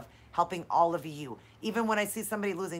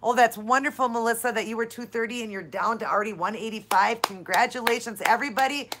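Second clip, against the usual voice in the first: excited cheering; 2 semitones higher, 6 dB louder than usual. Real, not acted. Host cheering Melissa's weight loss to viewers, loud and excited. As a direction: cheer her on like a proud coach.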